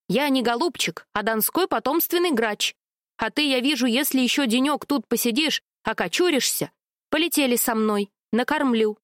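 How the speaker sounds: a lightly voiced proud rook; gruff rook. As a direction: speak as a proud hereditary rook. Rook character voice. (слегка сыгранный гордый грач)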